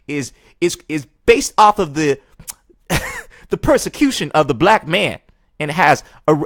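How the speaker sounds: exaggerated Black American accent, high; hammed-up Black American accent impression. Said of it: "I need to get in my black voice".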